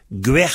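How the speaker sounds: "Guer" with a hard g and aspirated final h; hard g variant. Shown as a demonstration. Teacher contrasting variants, "Guer" with a hard g and pronounced h. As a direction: start "Guer" on a hard g, end on h. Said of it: "puisqu'on prononce le H".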